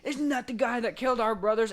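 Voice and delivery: a put-on thug's outraged recognition; hammed-up gang member; outlaw voice. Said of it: "they're like".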